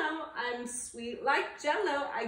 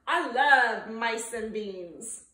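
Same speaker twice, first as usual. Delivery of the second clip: cat voice; 7 dB louder, slower than usual. Acted. Cat disguised as dog answers.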